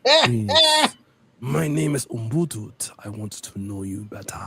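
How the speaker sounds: mock African suitor voice, playful; hammed-up African accent flirting. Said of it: "I use my little African voice".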